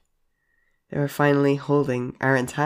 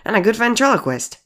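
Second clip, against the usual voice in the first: high, squeaky doll interjection; squeaked; 9 semitones higher, 3 dB louder than usual. Acted. Clown doll chiming in to the friends, squeaky. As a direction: squeak it out in a raised voice. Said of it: "they squeaked".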